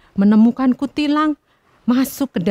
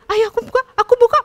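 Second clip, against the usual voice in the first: eager; 11 semitones higher, faster than usual. Acted. Sparrow opening the cage door.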